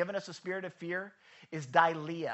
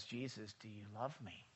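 doubtful plea; 9 semitones lower, 12 dB quieter than usual. Retold or imitated. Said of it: "what they doubted".

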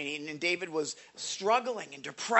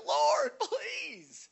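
high desperate plea, fading softer to the end; crying out loud; 10 semitones higher, 3 dB quieter than usual. Retold or imitated. David crying out to the Lord, a high desperate plea. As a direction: cry out to the Lord, starting high and loud then sinking. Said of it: "I'm crying out loud".

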